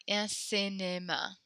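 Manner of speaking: cinéma with spread lips on the é and i; smiling French I. Shown as a demonstration. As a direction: smile while saying Un cinéma. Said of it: "Smile when you say the, the E".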